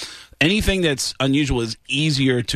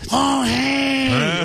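Louie Anderson impression; 9 semitones higher than usual. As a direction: hit that one high note. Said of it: "Louis Anderson would just be".

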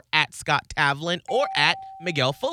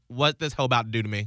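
cat voice; 4 semitones lower, faster than usual. Retold or imitated. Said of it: "In the cat voice".

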